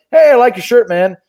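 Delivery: upbeat tourist saying hi; friendly greeting. Acted. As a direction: chirp a casual compliment at a stranger. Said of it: "be like".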